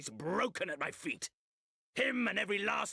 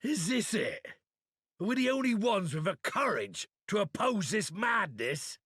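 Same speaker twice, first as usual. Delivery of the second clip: defiant shout; 3 semitones higher than usual. Acted. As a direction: shout it to stir the few brave ones. Rallying defiant warrior speech.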